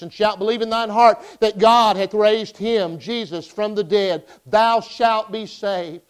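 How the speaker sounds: emphatic scripture recital, key phrases drawn out; preaching scripture. Acted. Preacher recounting the plan of salvation to Gary, emphatic recital. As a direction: proclaim the verses with slow, weighty endings.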